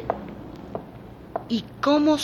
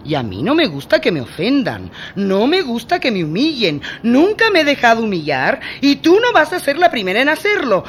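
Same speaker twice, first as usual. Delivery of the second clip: louder and louder, then fast and loud; building anger; 5 semitones higher, 8 dB louder than usual. Acted. Adela warns the maid she won't be humiliated, rising fury. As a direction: threaten her, rising to a shout. Escalating threat in quarrel.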